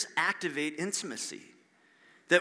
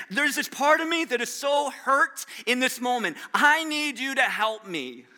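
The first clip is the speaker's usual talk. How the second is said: mildly raised, hurting plea; acted cry for help, pitched up; earnest pleading; 5 semitones higher than usual. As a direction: plead through hurt, drawing out the end. Voices Mary pleading with Jesus.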